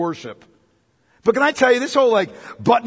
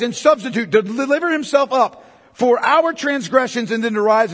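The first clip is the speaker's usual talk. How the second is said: fervent preaching; 2 semitones higher, 3 dB louder than usual. Acted. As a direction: preach it with rising fire. Preaching at full force.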